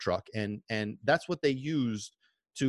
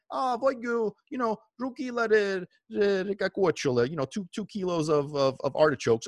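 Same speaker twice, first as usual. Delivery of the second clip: higher voice calling across the street; neighbor ordering; 6 semitones higher than usual. Retold or imitated.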